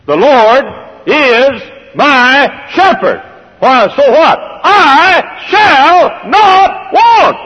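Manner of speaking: booming, drawn-out proclamation of the psalm; preacher thunders the verse, slow and loud; proclaimed loudly. Acted. Preacher to congregation, a slow shouted proclamation.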